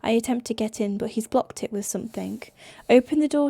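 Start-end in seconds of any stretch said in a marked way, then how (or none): 3.0-3.5 raised voice at the locked door; shouted demand. Acted. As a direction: order him to open up.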